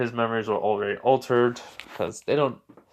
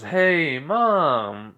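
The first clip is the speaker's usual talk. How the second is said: higher, drawn-out call to mom; lightly acted call through the house; 4 semitones higher than usual. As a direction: call for mom on coming home. Son calls out on arriving home.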